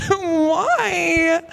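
high tearful whine; mock crying. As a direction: whine it as if mid-sob. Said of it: "crying like that".

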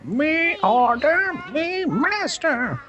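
very high, slow simpleton voice; dumb brute voice. Pretend. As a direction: play a dim giant. Master Blaster caveman impression.

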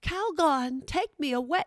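hint of a commercial voice; mock Calgon ad. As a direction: sigh it like the old bath ad. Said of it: "you guys remember the commercial?".

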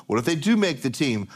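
"do" leaned on against the opposite worry; stress on DO. Acted. Opposite worry, stressed word flipped.

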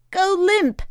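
high, loud rallying call; rally them, thrilled; old man urging resistance, high and loud; excited cry. Acted. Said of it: "cries Vic Lewis".

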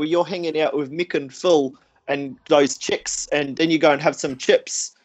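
badly faked Kiwi vowels; mock New Zealand accent; terrible New Zealand accent. Shown as a demonstration. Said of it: "That's a terrible New Zealand accent".

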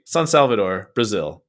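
lightly Latin American-accented place name; a modest attempt at a Latin American accent. Shown as a demonstration. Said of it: "my best with a Latin American accent".

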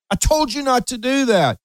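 high scolding parent; mock scolding; yelling parent. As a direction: snap it like a fed-up parent.

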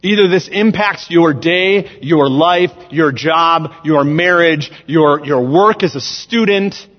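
emphatic, projected sermon delivery; preaching. Real, not acted. Preacher telling the church God lives within them, preaching. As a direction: preach it in measured, weighted phrases.

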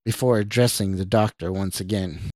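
measured audiobook narrator; even-paced storytelling; story narration. A narrator's reading. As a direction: read it as a suspense tale.

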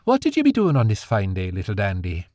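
lightly voiced Irish-lilted grandfather; a fond old fairy teasing his granddaughter. Grandfather asks his granddaughter about her day, lightly Irish-lilted.

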